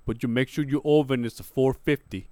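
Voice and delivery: lightly imitated fighter's accent; Francis Ngannou accent. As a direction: explain a recipe in a put-on foreign accent. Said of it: "Tell me, in his accent".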